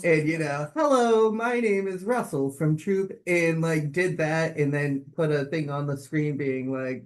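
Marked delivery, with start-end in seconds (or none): 0.8-3.1 put-on high, loud boy scout greeting; Russell impression. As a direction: announce yourself like an eager little scout. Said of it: "did the Russell".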